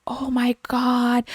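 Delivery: high, breathless whispered "Oh my God"; whispered gasp. Retold or imitated. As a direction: hush it out in awe. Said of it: "And she was like".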